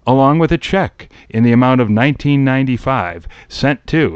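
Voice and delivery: lightly formal ad announcer; a hint of TV pitchman; commercial read. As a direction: read it like mail-order small print, measured and clear. Reads out a mail-order ad.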